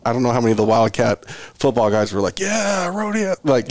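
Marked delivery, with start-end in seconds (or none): 2.4-3.3 mock cheer. Football players' reaction, acted.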